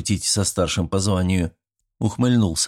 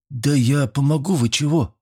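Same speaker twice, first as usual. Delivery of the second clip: indignant; 6 semitones higher than usual. A narrator's reading. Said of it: "возмутился Фёдор".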